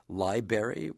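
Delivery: "library" said lie-BARE-ee, first R gone, rising; "library" with the R lost, questioning lilt; non-standard, R dropped. Shown as a demonstration. Host asks the guest about the variant: "library" without the first R. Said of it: "a non-standard pronunciation".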